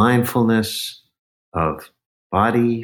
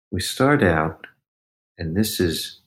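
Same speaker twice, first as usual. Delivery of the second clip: usual speaking voice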